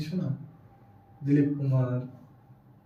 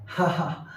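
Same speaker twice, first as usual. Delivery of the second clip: brief, dry "ha, ha"; short laugh; 2 semitones higher, much slower than usual. Acted. Man to newcomer before explaining the window, short laugh. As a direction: let out a short two-beat laugh.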